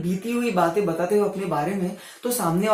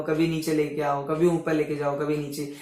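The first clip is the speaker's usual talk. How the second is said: voice dipping low; 4 semitones lower, 5 dB quieter than usual. Shown as a demonstration. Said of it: "आवाज को कभी ऊंचे लेके जाओ".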